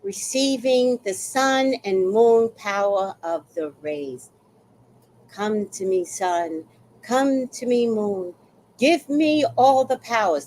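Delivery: slow, drawn-out invocation; lightly put-on summoning of cosmic powers; mock eclipse ritual. Acting out a mudra to receive sun and moon power, mock solemn. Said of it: "I was gonna be like this".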